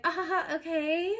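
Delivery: high, airy imitation of the other girl's laugh; mock laughing. Imitating the girl laughing on the phone, high mock laugh. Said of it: "She laughed".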